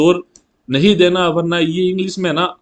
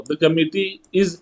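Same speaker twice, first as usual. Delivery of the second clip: slow passive example; much slower than usual. Shown as a demonstration. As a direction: read very slowly with a pause after is. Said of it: "जब आप इसका passive बनाओ".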